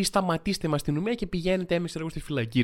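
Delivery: ordinary talk, nothing marked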